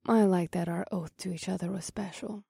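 high, soft feminine voice. Acted. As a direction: say it softly and tenderly. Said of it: "Mahini said in a soft voice".

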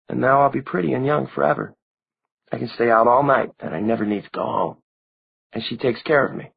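put-on high young girl's voice; a small girl reproaching him; girlish voice. A narrator's reading. Narrator voices Maureen.

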